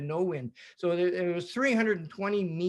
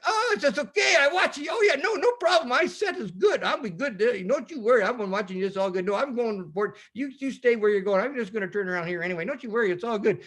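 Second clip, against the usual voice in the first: imitating a friendly Kiwi fisherman, higher; cheerful New Zealand accent, pitched up; 5 semitones higher than usual. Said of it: "this beautiful New Zealand accent".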